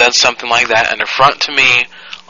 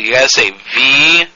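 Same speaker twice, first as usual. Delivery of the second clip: dictating. Real, not acted. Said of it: "sound it out".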